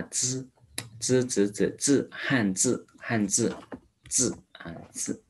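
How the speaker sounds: drilled repeats of 字 with a flat-tongue fricative z. Shown as a demonstration. Teacher drilling 字 after explaining the tongue, flat-tongue z. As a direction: keep the tongue flat behind the teeth on 字. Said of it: "这个呢就是平舌音".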